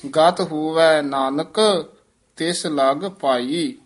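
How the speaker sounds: slow, with a pause after ਨਾਨਕ before ਤਿਸ ਲਗ ਪਾਈ. Shown as a demonstration. Teacher modelling the pause on ਨਾਨਕ, slowly. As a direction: rest on ਨਾਨਕ, then finish gently. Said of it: "ਥੋੜ੍ਹੀ ਜਿਹੀ ਠਮਕ ਲਾ ਕੇ ਨਾਨਕ ਪਦ ਤੇ ਵਿਸਰਾਮ".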